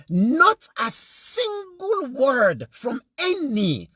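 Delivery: high, drawn-out indignant cry; slow, high-pitched outrage; real outrage. Real, not acted. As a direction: stretch each word in rising indignation. Outraged at leaders' silence over rape.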